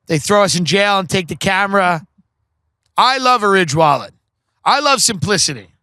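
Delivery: casual personal testimonial ad read. Real, not acted. Host selling wallets to listeners, ad read. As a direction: pitch the product as a loyal user. Reads a sponsor spot.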